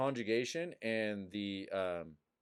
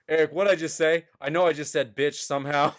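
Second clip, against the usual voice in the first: louder and higher, half laughing; panicked loud laughing; 6 semitones higher, 14 dB louder, faster than usual. Retold or imitated. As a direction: blurt it out in panic. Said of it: "he's like".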